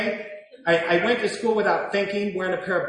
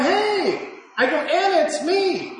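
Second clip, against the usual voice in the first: high-pitched call through a door; raised, acted calling voice; retold calling out; 11 semitones higher, slower than usual. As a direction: call out to someone behind a door. Calling through locked garage door.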